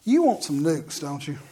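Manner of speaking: lightly voiced, quiet nudge from the Lord; hint of the Holy Spirit. Holy Spirit to the preacher about lunch, low quiet prompting. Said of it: "I heard the Spirit of the Lord go".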